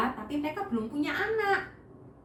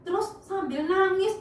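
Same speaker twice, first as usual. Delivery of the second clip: plain reading voice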